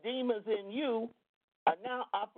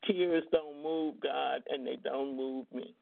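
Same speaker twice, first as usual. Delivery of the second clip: stern spiel; 8 semitones lower, slower than usual. Retold or imitated. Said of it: "I had to give him my spiel".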